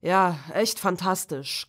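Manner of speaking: dry mock enthusiasm; teenage son mocking the story idea; sarcastic. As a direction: sneer it out. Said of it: "kommentierte Tom sarkastisch".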